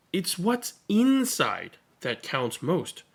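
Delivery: a hint of a wise friend; gentle reassurance. Seven gently reassures Zero.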